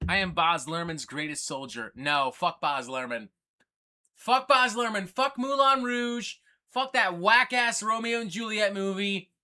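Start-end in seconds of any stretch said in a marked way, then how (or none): 4.2-9.3 mock angry rant. Real, not acted. Ranting against Baz Luhrmann.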